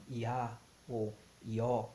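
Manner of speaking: "Iá ou Ió" ending on bare open vowels, no breath after them; silent H. Shown as a demonstration. Teacher showing the wrong reading, "Iá ou Ió" with silent H. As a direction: say "Iá ou Ió" slowly with the H mute. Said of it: "um H mudo".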